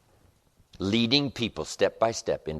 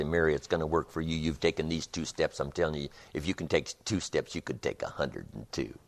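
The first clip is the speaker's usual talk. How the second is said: encouraging, smiling; 3 semitones lower, 6 dB quieter than usual. Acted. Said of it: "a big smile and say".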